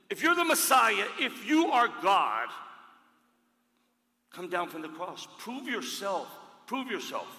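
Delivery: high, loud, sneering challenge; mocking thief. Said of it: "One thief said".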